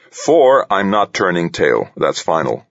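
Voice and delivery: firm, decisive leader; president voice. Acted. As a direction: plant your feet and refuse. President character voice.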